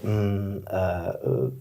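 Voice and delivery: hesitant, drawn-out mm and uh; soft searching hums between words; hesitation fillers. Shown as a demonstration. Teacher showing a student audible pauses, hesitant fillers. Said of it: "a lot of audible pauses".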